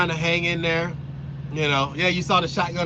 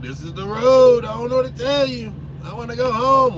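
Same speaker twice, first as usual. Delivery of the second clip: whiny daughter; 6 semitones higher, 6 dB louder than usual. Retold or imitated. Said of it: "I was like".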